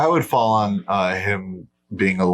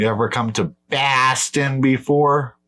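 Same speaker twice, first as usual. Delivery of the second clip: put-on Boston accent; 3 semitones higher than usual. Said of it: "That's my Boston accent".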